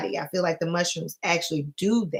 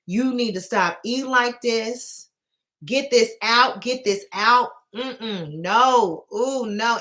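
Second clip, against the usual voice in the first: higher, stern mock scolding; scolding mushrooms; 4 semitones higher, slower than usual. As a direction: tell her off like a disapproving elder. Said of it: "the mushrooms was telling me".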